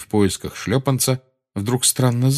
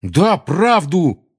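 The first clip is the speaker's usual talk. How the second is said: slow, emphatic, higher; cross, drawn-out retort; angry exclamation; 8 semitones higher, 4 dB louder, much slower than usual. A narrator's reading. Ron standing up for Harry to Seamus, angry. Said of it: "сердито воскликнул Рон".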